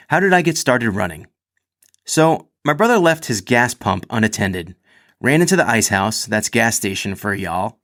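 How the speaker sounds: lively read-aloud of a personal story. A narrator's reading. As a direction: read it out like a chatty, self-mocking storyteller. Reads athlete's written story aloud.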